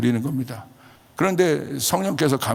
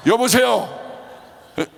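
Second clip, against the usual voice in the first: high, heated retold outburst; 갑작스러운 급발진; 6 semitones higher than usual. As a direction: re-enact flying off the handle, pitched up. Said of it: "갑자기 제가 급발진을 한 겁니다". (급발진하듯 높여 따지는 재연)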